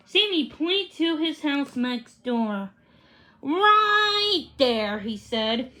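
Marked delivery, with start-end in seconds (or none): 3.4-5.0 eager. A narrator's reading. Sammy voiced, eager.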